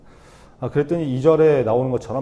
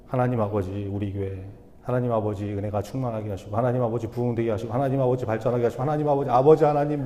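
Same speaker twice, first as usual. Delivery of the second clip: mock earnest prayer. Congregant leading prayer keeps calling on God, mock-earnest and building. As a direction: pray in mock earnest, gradually rising and gathering force. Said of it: "하나님을 얼마나 이게 간절하게 찾는지".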